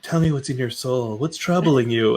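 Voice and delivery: gently mock a caring confidante; imitated soulful concern. Imitating friend probing his troubles at night, soulfully tender.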